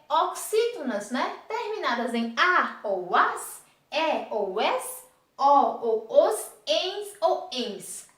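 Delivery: endings drawn out one by one; slow listing. Shown as a demonstration. Teacher listing endings slowly so pupils can follow. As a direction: spell out each ending slowly for the class. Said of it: "teacher lists endings slowly".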